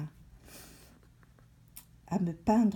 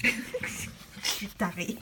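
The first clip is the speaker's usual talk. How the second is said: 1 laughing; 3 dB quieter, slower than usual. Real, not acted. Laughing at her own habit.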